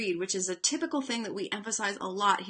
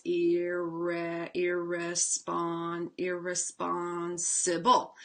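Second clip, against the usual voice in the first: slow, drawn-out chunk-by-chunk blending; 4 semitones lower, much slower than usual. Shown as a demonstration. Teacher modelling how to blend a long word slowly. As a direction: stretch each chunk and build up the word. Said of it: "you still have to blend the chunks".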